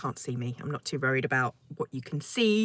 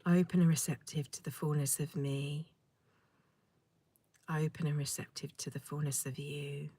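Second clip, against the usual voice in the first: guided meditation; 5 dB quieter than usual. Acted. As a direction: breathe it out gently, letting each phrase settle. Leads a meditation.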